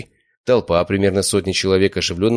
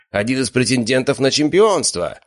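announcer hype; 7 semitones higher than usual. A narrator's reading. Announcer hyping the fighter.

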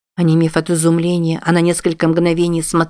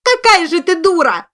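very high shrieking insult, louder; woman screaming at her calm cousin; 13 semitones higher, 3 dB louder than usual. A narrator's reading. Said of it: "закричала та ещё громче".

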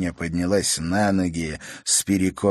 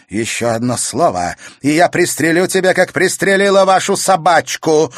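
through gritted teeth; 8 semitones higher, 7 dB louder than usual. A narrator's reading. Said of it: "процедила сквозь зубы графиня".

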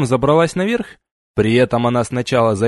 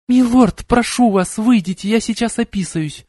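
barely audible moan; 8 semitones higher than usual. A narrator's reading. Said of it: "еле слышно промычала она".

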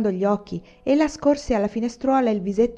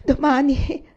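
put-on high, broken, rising child's sob; sobbing; 7 semitones higher, 4 dB louder, slower than usual. A narrator's reading. Little boy repeating the woman's promise, sobbing. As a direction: echo it through hiccuping sobs. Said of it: "ripeteva il fanciulletto singhiozzando".

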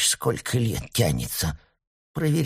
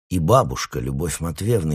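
ordinary delivery

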